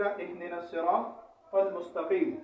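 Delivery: slow recitation ending on a stop at المستقیم; demo berhenti waqaf. Shown as a demonstration. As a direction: stop on a closed final m in المستقیم, drawn out. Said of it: "وقف کرنے کا طریقہ".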